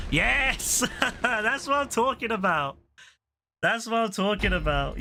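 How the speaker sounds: laughing victory cheer; excited cheer. Real, not acted. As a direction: celebrate the win with a laugh. Winning the match.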